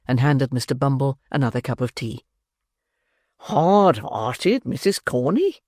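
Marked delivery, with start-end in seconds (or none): 3.4-5.6 beadle voice. Acted. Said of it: "said Mister Bumble".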